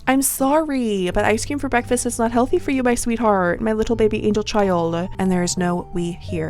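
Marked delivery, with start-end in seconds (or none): 0.1-4.9 doting aunt scolding. Acted.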